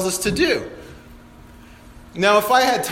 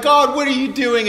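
mock begging; 4 semitones higher, 3 dB louder than usual. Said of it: "begging, like".

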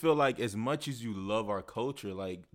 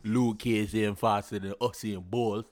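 put-on Jamaican accent; 3 semitones lower than usual. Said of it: "I actually said that better than he did".

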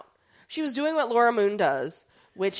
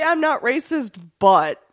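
mock racist excuse; 3 semitones higher, 8 dB louder than usual. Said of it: "Anytime you say".

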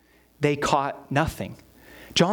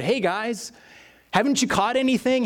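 higher-pitched friendly fisherman's banter; casual banter; 6 semitones higher than usual. Acted. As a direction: call over casually like one fisherman to another. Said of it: "He's doing some of the banter of fishermen".

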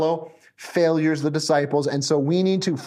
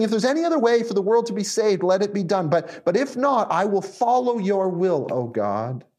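plead, then yield on the last words; 4 semitones higher than usual. Acted. Jesus praying to his heavenly Father, pleading into submission. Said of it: "Jesus is pleading with his heavenly Father".

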